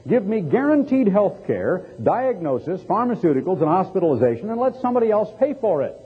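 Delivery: high-pitched list of mock demands; mock demanding. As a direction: mimic someone who expects everything handed over. Voices a selfish, demanding nation.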